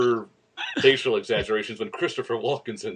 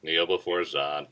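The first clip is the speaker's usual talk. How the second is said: dark lord; 5 semitones lower, 4 dB quieter, slower than usual. Retold or imitated. Quoting the Superman II villain.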